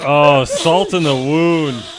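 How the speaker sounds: laughing. Real, not acted.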